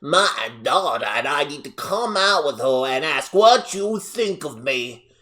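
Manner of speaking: hammed-up Southern mom, drawn out at the end; high-pitched thick Southern accent. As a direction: do an exaggerated, thick Southern twang. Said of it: "extremely thick, high-pitched Southern accent".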